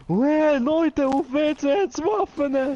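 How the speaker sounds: high, slow excited yell to friends; excited shout. Retold or imitated. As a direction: yell it like a thrilled kid with news. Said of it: "rennt er raus".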